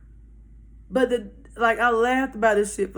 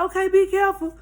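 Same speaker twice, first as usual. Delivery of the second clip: higher, lilting send-off; retold send-off; 9 semitones higher, 4 dB louder, faster than usual. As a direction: call it after him, pitched up. Group calls after the man leaving.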